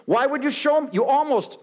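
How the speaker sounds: whiny, blaming excuse; mock indignation. Apologizer blaming the victim, high mock indignation. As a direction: pitch jumps high in mock outrage.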